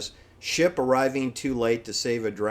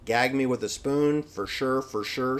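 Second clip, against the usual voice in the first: put-on valley girl; 2 semitones higher than usual. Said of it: "expressions on the song that a singer sings".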